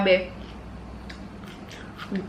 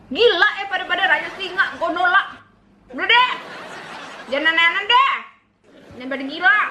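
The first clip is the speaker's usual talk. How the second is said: higher, squealing and laughing; giggly squeal; 9 semitones higher than usual. Real, not acted. Herself reacting to her own joke, giggly squeal. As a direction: shriek with giddy disbelief.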